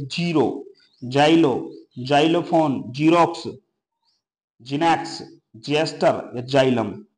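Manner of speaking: "जीरो", "जाइलो", "जीरोक्स" opened with a j sound for X. Shown as a demonstration. Teacher showing learners initial X as j in "जाइलम". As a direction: separate example words, each starting on j, as in "जाइलोफोन". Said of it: "एक्स का उच्चारण आप जे करते हो".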